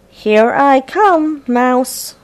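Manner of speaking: cat voice. Acted. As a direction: pounce on the words like a playful cat. Cat character voiced in story.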